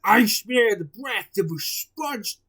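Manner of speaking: loud, slow giant bellow; hammed-up giant shouting. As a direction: boom it out like a giant sniffing prey. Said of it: "shouted the giant".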